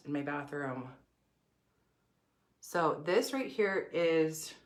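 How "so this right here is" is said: muffled behind a hand; talking through a covered mouth. Real, not acted. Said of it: "Sorry, I'm covering my mouth".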